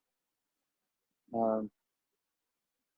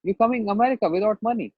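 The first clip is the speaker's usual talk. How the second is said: rude official; 6 semitones higher, faster than usual. Retold or imitated. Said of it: "very rude on me".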